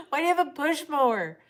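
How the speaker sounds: loud, high laughing question; cracking up in disbelief. Real, not acted. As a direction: burst out laughing as you ask.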